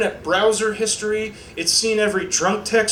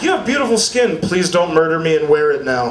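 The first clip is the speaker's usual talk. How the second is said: slasher killer; 3 semitones lower than usual. Retold or imitated. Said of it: "I'd sound like a serial killer".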